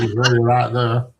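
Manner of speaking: laughing. Real, not acted. Laughing agreement about accents.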